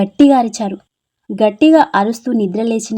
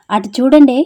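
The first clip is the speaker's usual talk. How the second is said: louder, urgent call to friends; shout; 5 dB louder than usual. Acted. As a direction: call out to make them look. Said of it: "అని అరిచింది". (స్నేహితులను చూడమని గట్టిగా అరవడం)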